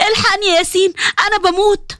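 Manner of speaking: mild mock pain calling for help. Sondos calling her husband Yasin, mildly pained. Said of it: "وسندس بوجع".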